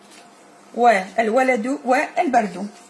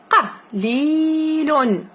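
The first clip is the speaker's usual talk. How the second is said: slow model reading; 4 semitones higher, much slower than usual. Shown as a demonstration. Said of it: "teacher models slow reading".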